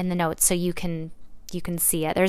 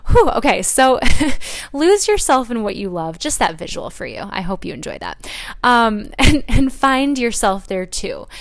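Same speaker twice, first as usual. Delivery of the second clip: louder, higher, laughing while pulling herself together; laughing through tears; 4 semitones higher, 7 dB louder than usual. Real, not acted. Host regaining composure after tearing up, laughing.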